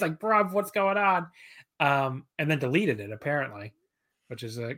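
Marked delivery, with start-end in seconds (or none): 0.2-1.3 bad British accent, high and drawn out; Will Ospreay impression. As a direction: stretch it out in a mock British accent. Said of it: "I can't do a British accent".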